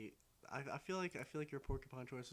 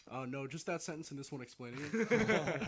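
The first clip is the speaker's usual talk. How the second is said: higher, louder mock Mexican cartoon guy; Mexican cartoon character; 4 semitones higher, 7 dB louder than usual. Retelling a Family Guy punchline, imitating the Mexican guy. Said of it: "like, Mexican guy goes".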